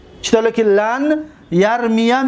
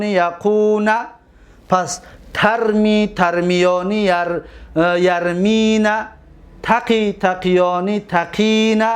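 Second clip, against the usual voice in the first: level-toned paradigm chant with drawn-out endings; conjugation recitation; slower than usual. Shown as a demonstration. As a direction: recite each verb form like a memorised table. (صرف فعل با لحن کشیده و یکنواخت)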